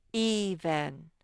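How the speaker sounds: "even" with a drawn-out EE, then VEN; syllable modelling. Shown as a demonstration. Teacher sounding out a spelling word for children, syllable modelling. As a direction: stretch the long E opening "even". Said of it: "The first vowel sound I hear".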